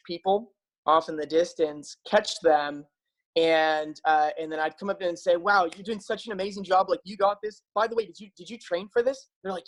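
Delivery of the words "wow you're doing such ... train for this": mildly impressed retold encouragement; encouraging runner. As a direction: imitate chatting up a fellow racer, lightly upbeat. Acts out cheering on fellow runners.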